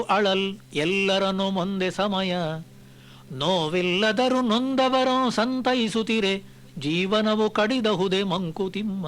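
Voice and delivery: slow, measured verse chanting; poem recitation. Acted. Speaker reciting a Kagga verse to listeners, slow and measured. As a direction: recite each line slowly and with weight.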